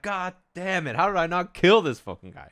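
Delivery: high-pitched exasperated cursing; acted frustrated outburst; mock venting. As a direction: rant as if the mic is muted. Acting muted player's venting.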